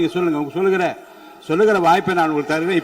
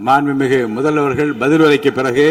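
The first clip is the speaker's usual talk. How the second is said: calling to order; 2 semitones lower, 4 dB louder than usual. Real, not acted. Chair calls noisy house to order.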